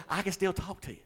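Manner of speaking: laughing, high-pitched retold reply. Real, not acted. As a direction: repeat it while cracking up. Repeats the line while laughing.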